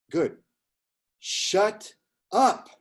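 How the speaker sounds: high, drawn-out Sicilian-Boston grandpa putdown; Sicilian Bostonian grandfather. Retold or imitated. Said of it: "in his, his Sicilian voice, uh, Bostonian".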